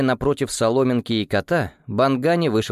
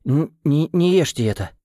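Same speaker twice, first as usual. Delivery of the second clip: stuttering, higher urgent warning; stammering; 5 semitones higher than usual. A narrator's reading. Boy warns friends not to eat, stammering. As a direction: trip over the words in alarm. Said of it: "заикаясь".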